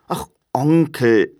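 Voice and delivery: put-on young relative's protest; pleading nephew. A narrator's reading. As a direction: appeal to a stubborn uncle. Nephew appeals to his uncle.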